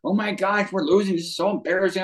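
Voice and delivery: a retold panic, voice jumping up; hammed-up teen panic on changeover; mock freak-out. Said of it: "she's freaking out".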